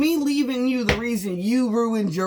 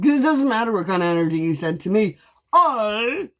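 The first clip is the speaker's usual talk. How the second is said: ordinary delivery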